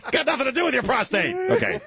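fast, high, squeezed out while laughing; real laughing, high-pitched rush; talking through laughter. Real, not acted. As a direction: get it out mid laughing fit. Still cracking up at the joke.

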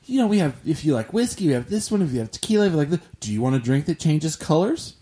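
high, eager server pitch; chirpy bartender. Retold or imitated. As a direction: upsell like a bubbly bartender. Bartender voiced in a story.

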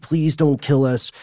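mildly pleading retold plea; begging. Frightened survivors bargaining with Olga for their lives, mock begging. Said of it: "they begged and begged and begged".

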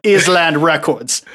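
slow, laughing mock London accent on "Island Records"; laughing through a bad British accent. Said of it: "that accent was awful".

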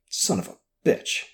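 breathy whispered curse under breath. Acted. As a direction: mutter it silently to yourself, voiceless. Joe's private curse after realization.

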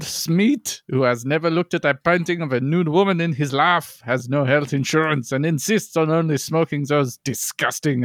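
hammed-up French podcast host; French accent. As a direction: introduce a guest in mock French. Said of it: "with a French accent".

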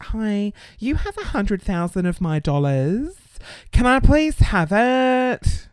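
sugary over-polite request, slowing at the end; drawn-out, sweetly pleading; mock polite email. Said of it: "I'm like".

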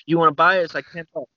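a hint of a CD hustler; street hustler's pitch. Imitates CD hustler naming his price.

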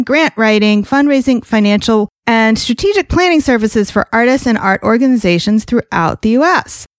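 bright, scripted host welcome over music; polished announcer-style introduction; podcast intro read. Acted. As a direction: read the show open like a radio host.

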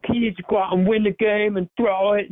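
mock country-accented fan demanding the obvious; thick country accent. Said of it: "a super thick country accent".

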